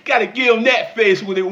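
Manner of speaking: loud laughing cry; real crack-up; laughing shout. Real, not acted. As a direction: laugh out the words. Laughing outburst.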